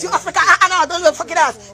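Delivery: loud, heated scolding; angry taunt. Real, not acted. Mocking someone over talking Africa, loud and angry.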